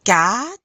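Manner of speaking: "Quatre" like "cat" plus a light R; R at the end. Shown as a demonstration. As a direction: finish "Quatre" on a small throaty R. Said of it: "a little bit of an R at the end".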